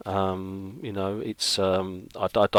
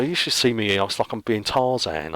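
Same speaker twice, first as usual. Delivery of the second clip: strained voice mid-stretch; 3 semitones higher, 4 dB louder than usual. Real, not acted. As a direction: talk while stretching out. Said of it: "he's stretching as well".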